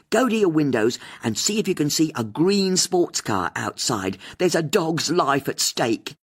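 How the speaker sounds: rally the listeners; host appealing to listeners on air; radio host. A narrator's reading.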